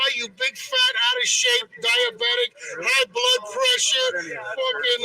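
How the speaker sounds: loud, high, slow insulting yell; angry shout. Real, not acted. Protester yelling insults at a police officer, angry shout. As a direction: spit each insult out at him.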